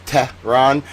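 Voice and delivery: Tehran split pointedly into "TEH... rahn"; over-pronounce "Tehran" to needle the critic; emphatic two-part "TEH, rahn"; mock mispronunciation. Shown as a demonstration. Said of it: "I don't know how to pronounce".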